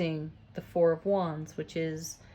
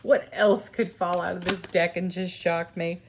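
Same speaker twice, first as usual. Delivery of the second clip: laughing. Real, not acted. Laughing at cards jumping out.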